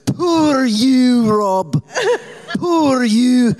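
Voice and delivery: Scottish lilt, mock sympathy, high; imitating Ruth's Scottish mid-argument; Scottish accent. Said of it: "You just went full Scottish on me".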